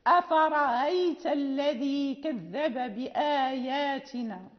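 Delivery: slow "أفرأيت" with softened hamza; eased hamza recitation. Shown as a demonstration. Teacher recites the example with eased hamza, slow. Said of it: "مثلًا".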